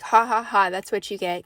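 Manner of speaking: spoken ha-ha-ha taunt; mock gloating laugh. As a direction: gloat with a put-on laugh, loud on the ha's. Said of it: "look at and laugh and".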